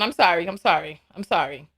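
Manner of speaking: mock apology fading low. Real, not acted. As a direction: fade it down, mock-sheepish.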